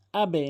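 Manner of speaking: আবে with the echo falling downward; downward qalqala. Shown as a demonstration. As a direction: drop the bounce on আবে. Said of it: "নিচের দিকে". (নিচের দিকে কলকলা)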